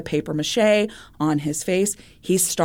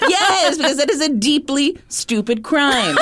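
laughing; 9 semitones higher than usual. Real, not acted. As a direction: burst out laughing through it. Laughing at a stupid crime.

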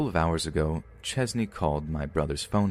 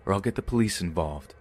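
Sea Cadet voice. Retold or imitated. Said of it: "I immediately went for my Sea Cadet voice".

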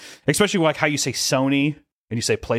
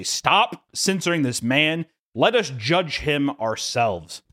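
slow, higher-pitched proclamation; mock public plea; 4 semitones higher, much slower than usual. Fans demanding no more censoring of this man, slow mock plea. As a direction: plead slowly on behalf of the people.

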